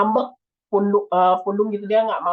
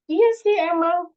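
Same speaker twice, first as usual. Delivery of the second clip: sheepish admission; 9 semitones higher, 3 dB louder, slower than usual. Retold or imitated. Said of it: "misalnya si A bilang".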